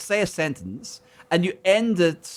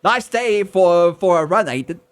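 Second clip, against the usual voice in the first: mock Cockney; 5 dB louder than usual. Shown as a demonstration. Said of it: "learn the Cockney of the accents".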